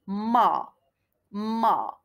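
"ma" as one syllable, vowel held; syllable demonstration. Shown as a demonstration. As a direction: model "ma" slowly for learners. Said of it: "je la prononce".

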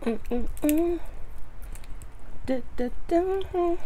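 humming with closed lips; murmuring between bites of food; mouth full, chewing. Real, not acted. Seen 3: Closed lips moving while picking crab; food brought to mouth at 3.4.

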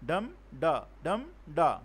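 "dum da, dum da" in strong-weak pairs; trochaic beat. Shown as a demonstration. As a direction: heartbeat rhythm on "dum da, dum da", each da falling away. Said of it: "stressed syllable followed by unstressed".

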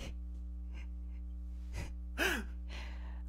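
a breathy mock sob-laugh, soft; half-crying laugh. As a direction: laugh it off like you're tearing up. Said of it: "you're not laughing".

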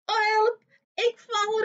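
high, loud alarmed yelp; dwarf cries out. A narrator's reading. Front dwarf stumbles under the coffin, loud high yelp. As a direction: yelp as you topple. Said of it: "riep de voorste dwerg".

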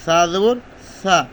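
সা said with a soft, gentle s; a softly articulated সা. Shown as a demonstration. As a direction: soften the s in সা. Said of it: "নরম".

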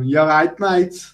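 lightly attempted Birmingham accent; terrible Birmingham accent. Mocking people from Birmingham in a bad Birmingham accent. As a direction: have a poor go at Brummie. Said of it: "That was a terrible Birmingham accent".

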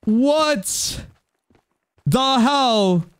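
stunned high exclamation; shocked, drawn-out what the hell; surprised. Real, not acted. Shocked by donations.

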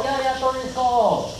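slow, high, stretched goal call; commentator goal call. Acted. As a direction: drag out every word like a commentator. Calling the goal again, drawn out.

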